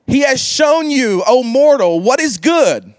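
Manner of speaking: scripture reading. Acted. Reading Micah six eight aloud.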